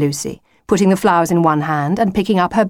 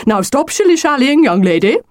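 high, louder scolding wolf; impatient cry; 8 semitones higher, 5 dB louder than usual. A narrator's reading. Wolf losing patience with Lucy, crying out. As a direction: scold her, starting high and forceful. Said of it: "cried the wolf".

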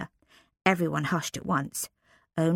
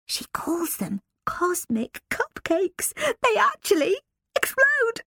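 whispering; 13 semitones higher, slower than usual. Acted. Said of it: "Lilia whispered from behind her hand".

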